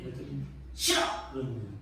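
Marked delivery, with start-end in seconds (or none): 0.7-1.0 a mock-sharp, sulky "싫어!" tossed back; sharp whiny refusal. Father imitating daughter refusing to wash, sharp and sulky. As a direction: snap "싫어!" like a stubborn child refusing. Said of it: "날카롭게 앙탈지게".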